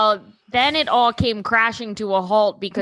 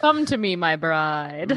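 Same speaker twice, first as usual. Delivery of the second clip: imitating deep voice; 8 semitones lower than usual. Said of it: "how he kept saying".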